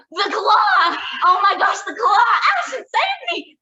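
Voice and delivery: high, loud panicked shouting; mock panic. Daughter imitating dad's wrestling game, hammed-up panic. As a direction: cry for help as if your own hand is attacking. Acting out dad's pretend claw attack.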